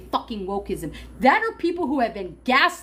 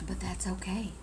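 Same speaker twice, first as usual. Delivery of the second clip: turning away from phone; 3 semitones lower, 11 dB quieter than usual. Real, not acted. Speaking away from the mic.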